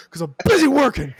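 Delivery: high, loud whining mock cry; whiny excuse. Host whines to his wife, mock crying. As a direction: whine it like a wounded husband. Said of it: "I'm like".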